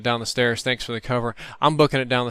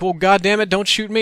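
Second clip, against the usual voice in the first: high, louder retort; exasperated yelling; 7 semitones higher, 4 dB louder than usual. Retold or imitated. Man in rifle's line of fire to Austin, exasperated yell. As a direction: protest in a pitched-up yell. Acted shouting quarrel with Austin.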